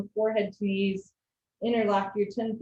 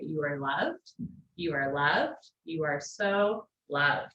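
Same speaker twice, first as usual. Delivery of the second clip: tender affirmation; 5 semitones lower, slower than usual. Real, not acted.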